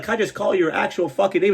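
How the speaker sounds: asking a coworker to use his real name, exasperated. Retold or imitated. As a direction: beg him, half laughing. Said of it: "I'm like".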